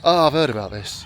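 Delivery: loud, shocked retelling of a mate's dismay; horrified. Retold or imitated. Old pub friend hearing the speaker quit drinking, horrified. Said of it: "he was horrified and he said".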